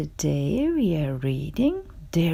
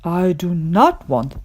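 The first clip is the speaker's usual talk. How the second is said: mild complaint. Acted. Gerald complains, listing everything.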